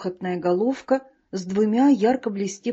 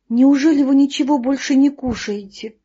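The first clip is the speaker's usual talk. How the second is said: higher, louder astonished question; surprised; 5 semitones higher, 6 dB louder than usual. A narrator's reading. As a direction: gasp it out in disbelief. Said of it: "удивилась пчёлка". (удивлённо, выше и громче)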